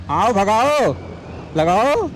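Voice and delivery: egging on a racing friend; excited shout. Real, not acted. Urging rival during race.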